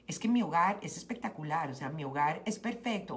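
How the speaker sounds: posh Colombian girl, lightly voiced; a touch of snobbish gomela. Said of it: "estoy hablando como una gomela".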